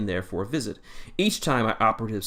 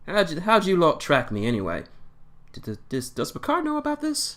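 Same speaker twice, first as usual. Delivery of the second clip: lightly voiced Doctor, pitch jumping high; the Doctor, inquisitive; 9 semitones higher, 3 dB louder than usual. Doctor asks captain how he was tracked, inquisitive. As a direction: question the captor with high, swooping pitch.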